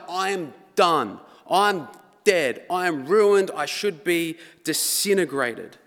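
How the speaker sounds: loud, anguished prophet crying out; hammed-up despair of a doomed man; dramatic despair. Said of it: "It would have been something dramatic".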